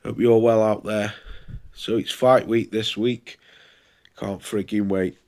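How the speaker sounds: bunged-up nose from a cold; blocked nose. Real, not acted. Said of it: "Sorry if I sound like I've got a peg on my nose".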